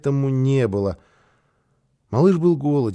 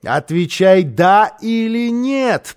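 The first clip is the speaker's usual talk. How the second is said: loud, higher, insistent demand; sharp interruption; 5 semitones higher, 4 dB louder, slower than usual. A narrator's reading. Housekeeper interrupting the boy, sharp and insistent. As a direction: cut in and demand an answer. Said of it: "прервала его Фрёкинбок".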